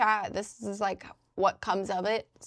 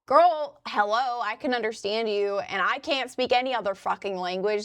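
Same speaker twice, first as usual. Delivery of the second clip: sassy reassurance; 3 dB louder than usual. Retold or imitated. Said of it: "And I'm like".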